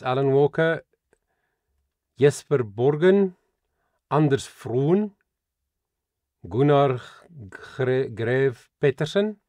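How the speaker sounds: names in a tried Scandinavian accent. Shown as a demonstration. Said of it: "I'm trying my best Scandinavian accent".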